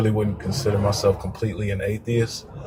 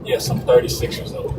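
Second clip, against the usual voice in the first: distant, faint earbud voice; far from mic; 2 semitones higher than usual. Real, not acted. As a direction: talk from far away on Bluetooth. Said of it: "it sounds like you're far away".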